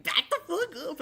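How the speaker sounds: high, loud laughing quote; mock shout. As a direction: yell it while laughing. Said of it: "where they were saying".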